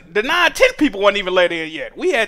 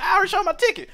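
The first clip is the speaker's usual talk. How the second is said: pitched up, fed-up complaint; exasperated whine; 9 semitones higher, 3 dB quieter, much faster than usual. Retold or imitated. To the ticket checker again, pitched-up exasperated whine. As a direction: plead it, worn out.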